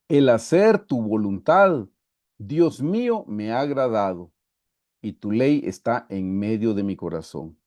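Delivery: measured, emphatic psalm reading; lectura solemne del salmo. Acted. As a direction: read it out in deliberate phrases. Lee el salmo en voz alta. (lectura pausada del salmo)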